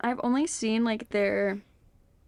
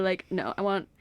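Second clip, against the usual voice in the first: ordinary delivery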